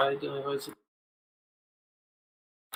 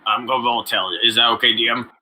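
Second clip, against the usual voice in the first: gruff low bulldog growl; British bulldog voice; 6 semitones lower, much faster than usual. Acted. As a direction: talk like a chain-smoking bulldog. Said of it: "I sound like a bulldog, British bulldog".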